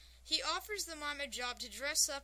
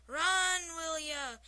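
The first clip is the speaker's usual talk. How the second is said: loud, high Scottish holler; drawn-out shout in a mock Scottish accent; Scotsman's scream; 5 semitones higher, 8 dB louder, much slower than usual. A narrator's reading. Scotsman pleased with his baseball knowledge, screaming it.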